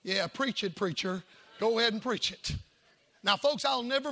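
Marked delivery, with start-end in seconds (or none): 0.0-2.5 lower, dry sarcastic preach it; sarcastic wife. Retold or imitated. Wife's silent look voiced as low mild sarcasm. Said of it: "her mother looked at me like".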